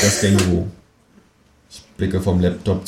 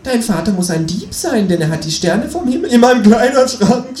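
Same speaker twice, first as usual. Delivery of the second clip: high, louder desperate cry; desperate shout; 6 dB louder than usual. Acted. Narrator breaks under kangaroo pressure, desperate shout. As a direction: blurt it out in despair. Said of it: "schrei ich verzweifelt".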